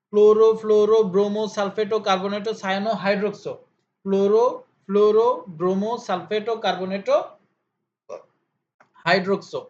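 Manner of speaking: ক্লোরো, ফ্লোরো, ব্রোমো recited one by one, each ending in rounded o; rounded vowel endings. Shown as a demonstration. Teacher drilling ligand names, ক্লোরো to হাইড্রোক্সো with clear o endings. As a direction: chant out ক্লোরো to হাইড্রোক্সো, leaning on the final o. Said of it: "উকারের মতো করে".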